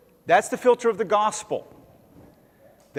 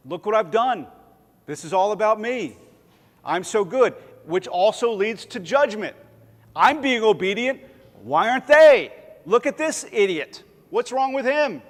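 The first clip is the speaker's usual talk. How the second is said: lightly voiced smug churchgoer, higher and louder; a hint of proud scorn for the idiot; judgmental believer; 4 semitones higher, 4 dB louder than usual. Preacher voicing a proud churchgoer judging others, smug.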